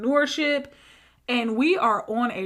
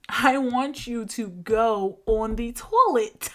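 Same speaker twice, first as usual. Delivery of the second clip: deliberate instruction; slower than usual. Retold or imitated. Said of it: "Saying it in a way that you said".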